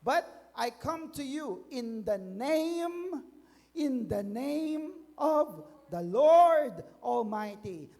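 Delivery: slow, ringing proclamation, surging on the Lord's name; David's shouted reply. Acted. David defying Goliath in God's name, shouted declaration. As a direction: declaim it, stretching the key words. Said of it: "sumigaw din siya".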